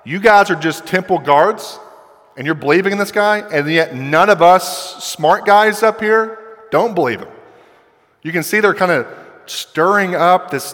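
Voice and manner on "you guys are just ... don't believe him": higher-pitched mock condescension; arrogant. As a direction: look down on the lowly guards, lightly acted. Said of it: "arrogant thing to say".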